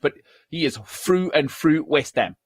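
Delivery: \"through\" said as \"frough\", slow London accent. Shown as a demonstration. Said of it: "the British can't say a T H".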